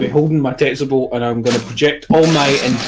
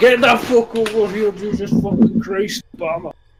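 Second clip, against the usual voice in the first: high-pitched, loud yelling; 7 semitones higher than usual. Calling out to the speaker's peeps: yelling out to friends. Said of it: "I'm gonna yell out to my peeps".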